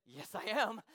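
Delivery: soft, determined comeback; quiet defiance. Retold or imitated. Quiet defiant comeback in retold standoff.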